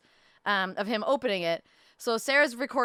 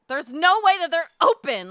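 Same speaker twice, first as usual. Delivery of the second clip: higher and louder, mock exasperated; exasperated outburst; 8 semitones higher, 10 dB louder than usual. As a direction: throw it out in retold disbelief. Retold argument about a closed brewery.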